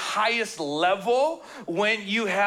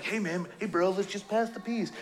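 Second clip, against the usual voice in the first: softer, casual surfer bro; bro-speak; 4 dB quieter than usual. Retold or imitated. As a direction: toss it off like a chill church bro. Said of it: "weird sayings and weird phrases".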